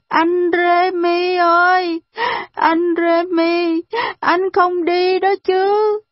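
put-on high, slow, drawn-out child's cry; calling out loudly. A narrator's reading. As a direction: call after Remy, begging him not to leave. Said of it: "Arthur kêu to". (gọi to, kéo dài, giọng trẻ con cao)

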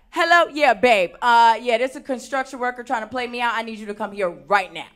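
lightly performed call to a partner, opening high and loud; acted phone call. Woman phoning her partner about a construction worker, acted phone call. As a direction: play calling in backup, a little put on. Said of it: "I get on the phone. I'm like".

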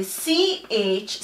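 a short, lone "ch" with no vowel; phonics-style "ch" sound; isolated letter sound. Shown as a demonstration. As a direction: puff out just "ch". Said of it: "The C H says".

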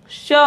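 "श" with the tongue touching the front of the upper jaw; tongue-tip sh. Shown as a demonstration. Teacher showing students where the tongue touches, demonstrated "श". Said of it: "ऊपरी जबड़े के अगले हिस्से पे touch".

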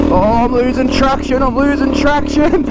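high, alarmed yelp while slipping; urgent cry as the wheel spins; excited. Real, not acted. Bike slipping on hill climb.

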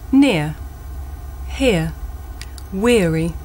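Near, hear, weary, each with a clear gliding ear; model words for ear. Shown as a demonstration. Teacher models word list for the class, careful and clear. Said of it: "here are some words with this sound".

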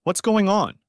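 bewildered prisoner asking the agent; confused question. A narrator's reading. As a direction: ask it lost and confused. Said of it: "Shannon looked back at the agent in confusion".

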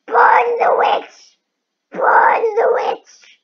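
slow drawn-out yell; shouting. Real, not acted. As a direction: chant it loudly. Gamer chanting at witch.

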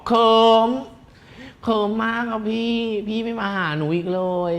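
high put-on voice of a junior; teasing high-voiced imitation; imitating a fan. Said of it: "น้องเขาบอกว่า".

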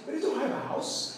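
teacher voicing surprised disbelief for learners; surprised question. Shown as a demonstration. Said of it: "você usa a entonação de pergunta".

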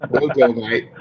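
mock cockney Mary Poppins lilt; playful Mary Poppins cockney; Mary Poppins accent. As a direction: chirp it like Mary Poppins would. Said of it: "That's Mary Poppins".

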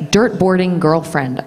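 put-on slow American "Dirt boarding girlfriend", R's pronounced; measured American R's on each word; careful American accent. Shown as a demonstration. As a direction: show off the tricky American phrase slowly. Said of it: "like, the hardest phrase".

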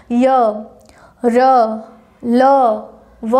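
य, र, ल, व each held out separately with throat vibration; voiced य, र, ल, व. Shown as a demonstration. Teacher has students feel inner vibration, drawn-out voiced य, र, ल, व. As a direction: sound out य, र, ल, व slowly, one by one. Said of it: "अंदर से ही थोड़ा सा कंपन हो रहा है".

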